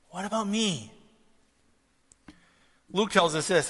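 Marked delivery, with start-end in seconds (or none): 0.1-0.9 higher-pitched, petulant moan; acted sulky protest, falling away; jealous brother. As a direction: whine it as the slighted brother. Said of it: "who was jealous".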